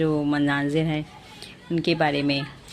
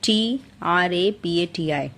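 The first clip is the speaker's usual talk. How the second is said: spelled out slowly; slower than usual. Shown as a demonstration. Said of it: "छत्रपति की spelling".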